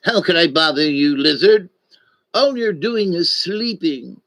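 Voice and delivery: a hint of the annoyed puppet snake; annoyed snake hiss. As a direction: let the snake grumble at the lizard. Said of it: "and he hissed".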